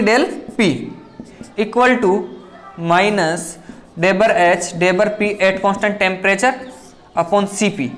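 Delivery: slowly spelling out a formula; slow dictation. Shown as a demonstration. Teacher reading a formula for students to copy, slow.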